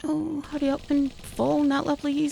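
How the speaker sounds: high, urgent begging; real worried begging; anxious pleading. Real, not acted. Begging enemy to fall.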